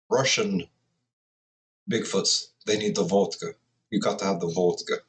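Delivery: lightly put-on, clumsy Russian accent; amateur Russian impersonation; bad Russian accent. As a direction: do a joking, half-hearted Russian accent. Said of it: "that was a horrible Russian impersonation".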